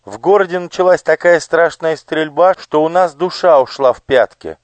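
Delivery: put-on high, eager boyish voice; young page. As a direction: play a nervous child explaining. Elo voiced. (испуганный мальчик-паж, высоко)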